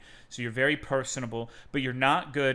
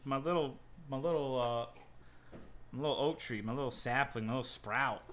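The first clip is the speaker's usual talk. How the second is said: tender; 5 dB quieter than usual. Real, not acted. Cooing over his dog.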